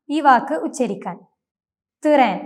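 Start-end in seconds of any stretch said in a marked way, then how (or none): 2.0-2.4 "തിറേൻ" with a short vowel between t and r; correct Turkish pronunciation. Shown as a demonstration. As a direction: split "തിറേൻ" into tı-ren. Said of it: "ഇ എന്നൊരു sound ഉൾപ്പെടുത്തി".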